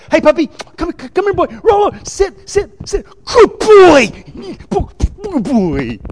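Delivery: high, loud sing-song dog-owner call; God pictured running after His puppy, calling it in a high, loud voice. Acted. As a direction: coo at the puppy like an eager owner.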